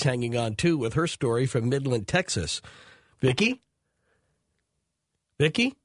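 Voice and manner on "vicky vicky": calling out. Real, not acted. Host checking caller on line.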